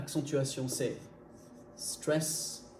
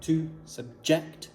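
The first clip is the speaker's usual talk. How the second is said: "subject" slowed, with "ject" hit hard; stress on second syllable; much slower than usual. Shown as a demonstration. Teacher shows learners where the accent falls, "subject" stressed on "ject". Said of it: "c'est ject qui est accentué".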